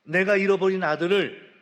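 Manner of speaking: half-shouted rejoicing, swelling on the middle line; retold joyful shout. Father shouting to the village that his lost son is found, rising joyful call. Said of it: "소리치고 있다".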